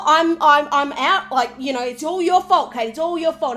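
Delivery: hammed-up blame, pinning it all on her; mock rant at his partner; mock blaming rant. Mocking Tim blaming Katie.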